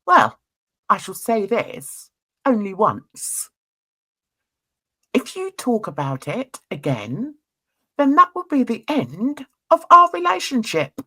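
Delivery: mock menacing ultimatum, measured with long pauses; threatening. Husband warning wife about their relationship, imitated threat. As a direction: imitate a husband's deliberate warning, pausing for effect. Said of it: "gets down, like, really quiet, really threatening".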